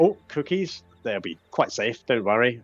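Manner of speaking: lightly voiced jovial adviser; Sir Talavar. Fairy dragon judges the cookies safe, lightly jovial. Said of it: "So Talavar says".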